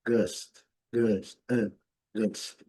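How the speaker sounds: "gust" with a short lazy "ah"; teacher modelling the schwa in "gust"; schwa demo. Shown as a demonstration. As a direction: say "gust" with a relaxed, unmoving face. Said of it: "Seria mais ou menos assim".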